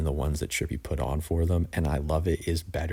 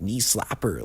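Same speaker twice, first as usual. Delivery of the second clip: a higher, mocking knee slapper, lightly imitating the rapper; weird voice; 5 semitones higher than usual. Reviewer mocking the rapper's ad-lib in a weird voice. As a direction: parody the odd ad-lib, knee slapper pitched up and sing-song. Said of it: "he's saying it in just this weird-ass voice".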